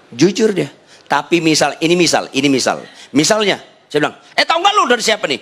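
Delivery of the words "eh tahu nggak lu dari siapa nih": high, quick teasing question; excited hype. Retold or imitated. Pastor hyping an old phone to buyers, excited. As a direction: pitch it up like juicy news.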